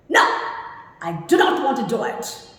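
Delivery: abrupt, quick, firm refusal; demonstrated flat-out refusal; very affirmative. Shown as a demonstration. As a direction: refuse bluntly and fast. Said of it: "very affirmative".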